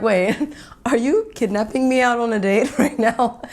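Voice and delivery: giggling through the question; laughing as she asks her date if he's kidnapping her. Retold or imitated. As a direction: tease him between laughs.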